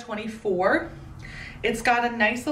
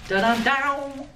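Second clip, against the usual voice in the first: slow, higher hummed reveal jingle; ta-da fanfare; 4 semitones higher, slower than usual. Real, not acted. Vlogger revealing the next item, playful fanfare. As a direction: draw out a little da-dum fanfare.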